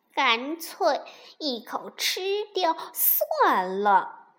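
drawn-out, decisive villain's thought; angry resolve. Acted. Angry fox decides to gobble the duck egg, drawn-out resolve. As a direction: make up your mind, stretching the words.

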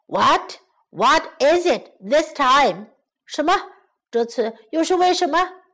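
mildly impatient storybook lion; anxious, impatient lion. Acted. Lion asking why he was refused, mildly anxious. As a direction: ask with a touch of urgency. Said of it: "狮子着急地问".

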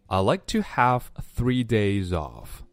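slow, careful model sentence; slow model reading. Shown as a demonstration. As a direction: read it slowly for learners. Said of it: "经典表达".

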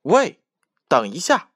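high, loud little mouse yell; squeaky shout. Acted. Tiny mouse shouting at three foxes, high and loud. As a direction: squeak out to stop them. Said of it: "小老鼠用它尖细的嗓门大喊道".

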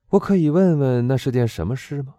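leaning in with sudden curiosity; curious question. A narrator's reading. Englishman curiously asking the warden about the strange event. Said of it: "带着一种好奇的表情问道".

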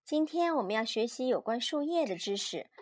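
put-on lively, measured read-aloud for small children; children's story narration. A narrator's reading. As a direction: read a picture book to a child.

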